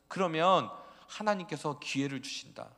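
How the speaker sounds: loud, high prophet calling out; prophet's cry. Acted. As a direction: call the people back to God at full voice. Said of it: "그래서 계속 외쳤죠".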